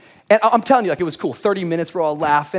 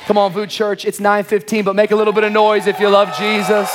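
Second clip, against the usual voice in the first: loud, higher rallying call to the congregation; hype call to crowd; 4 semitones higher, 5 dB louder than usual. Real, not acted. Pastor firing up the nine fifteen crowd, loud hype call. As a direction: pump up the room, come on.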